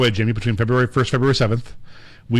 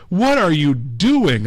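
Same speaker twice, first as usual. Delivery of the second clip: high, slow mock cop demand; imitating a lady cop; 6 semitones higher, 4 dB louder, slower than usual. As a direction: grill the driver like a cop. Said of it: "and she's like".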